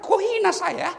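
high, loud indignant protest; huffy, hammed-up offended rich man; mock offended rich man. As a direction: play the insulted rich donor. Rich man insulted by small gift.

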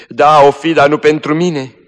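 high, loud bitter retort; dying girl answers bitterly, high and loud; bitter outburst. Acted. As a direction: throw the words back bitterly. Dying girl's bitter reply.

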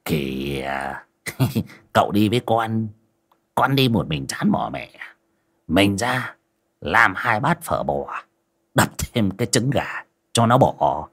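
soft coaxing plea with a chuckle; cajoling friend, soft and earnest; pleading warmly. Acted. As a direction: coax your master to come eat, softly. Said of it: "giọng tha thiết".

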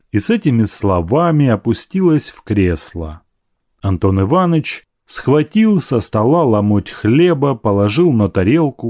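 plain reading voice

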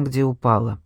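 ordinary delivery, nothing marked

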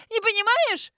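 full shriek. A narrator's reading. Grace repeating it to her sister, screaming hysterically. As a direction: shriek "Не понимаешь?" at the top of the voice. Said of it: "взвизгнула Грейс".

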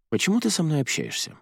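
blunt question leaning on ты; direct question. A narrator's reading. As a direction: stress on ты, a straight pointed ask. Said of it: "прямо спросила Арадия".

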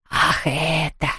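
soft hollow ghost voice. A narrator's reading. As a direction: shrug it off as the ghost. (голос привидения)

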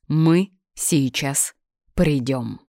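slow, each word set apart; measured, emphatic warning. A narrator's reading. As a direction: punch out every word separately with pauses. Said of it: "Чётко выделяя каждое слово, отчеканил я".

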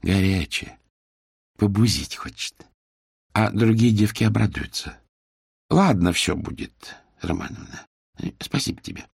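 put-on older worker calmly settling with the owner; good-natured. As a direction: shrug it off kindly. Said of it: "добродушно молвила".

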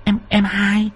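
a wicked matron, stunned then sly; astonished first wife. A narrator's reading. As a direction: gasp out her shock at the sister wife. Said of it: "Bà cả nhìn bà hai kinh ngạc".

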